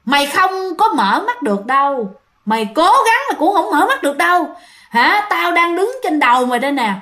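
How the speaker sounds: high, mocking ghost-girl voice; taunting ghost girl. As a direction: gloat over the frozen sleeper. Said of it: "cái tiếng con nhỏ đó".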